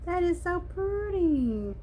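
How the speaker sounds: fighting tears but gushing over the gift; teary high voice. Real, not acted. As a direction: voice jumps high and cracks with tears. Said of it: "I'm not gonna cry".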